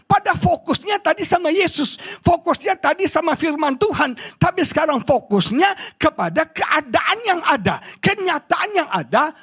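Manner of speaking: high, emphatic pulpit delivery; insistent preaching. Acted. Preacher explains Peter's lost focus to congregation, insistent high preaching. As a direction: drive the point home up high.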